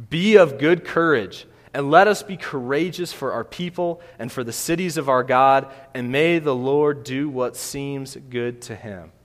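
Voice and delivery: rallying speech. Acted. Reading Joab's speech to men.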